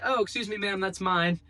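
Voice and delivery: calling politely across a long driveway, half-hearted; retold shout. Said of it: "And I'm shouting".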